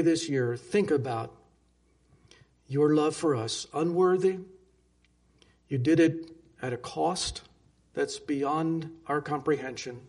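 earnest pastoral prayer to God; closing prayer. Acted. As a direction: pray it over the congregation.

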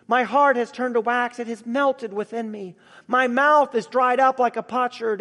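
forceful, emphatic psalm recitation; proclaiming. Retold or imitated. Preacher reads David's lament to the congregation, proclaiming. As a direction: proclaim the lament with mounting urgency. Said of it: "he proclaims".

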